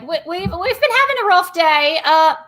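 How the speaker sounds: a weary constable casually mentioning a body count; a hint of a harried security guard; Barnabas, briefing. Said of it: "He's like".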